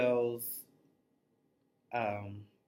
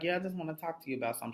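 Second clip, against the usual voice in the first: quoting him; 5 dB quieter, much faster than usual. Retold or imitated. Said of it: "And he's like".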